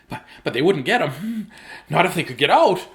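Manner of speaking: worried, rushing rabbit babble; anxious Jasper. Acted. Jasper nervously plotting against the carrots. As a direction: babble through the plan nervously. Jasper's panicked rambling voiced.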